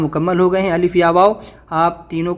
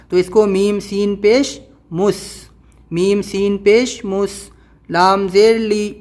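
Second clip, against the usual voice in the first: slow spelled-out recitation; much slower than usual. Shown as a demonstration. Teacher spelling out a word for students, slow and sing-song. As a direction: spell each letter and vowel slowly, chant-like.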